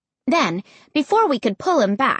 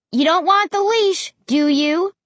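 exasperated; 9 semitones higher, 3 dB louder than usual. Acted. Scolding the squirming dog.

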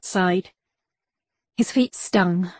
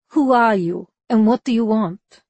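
put-on strong Russian accent, guarded; wary woman with a heavy Russian accent; 3 semitones higher, 3 dB louder than usual. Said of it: "she asked in a strong Russian accent".

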